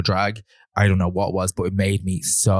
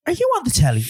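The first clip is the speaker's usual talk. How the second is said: high mock fan voice; woman asking. Woman in theatre aisle asking him, high mock fan. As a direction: mimic a starstruck stranger, much higher. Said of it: "she goes".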